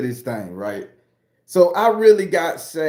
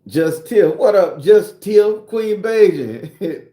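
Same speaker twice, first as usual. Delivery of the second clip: excited shout-out; 6 semitones higher, 7 dB louder, much slower than usual. Real, not acted. Greeting viewers by name, loud.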